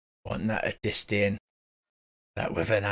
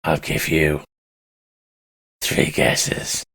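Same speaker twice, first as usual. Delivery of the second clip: low gravel vigilante growl; gravelly voice; 5 semitones lower, 7 dB louder, much slower than usual. Acted. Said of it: "Gravelly voice".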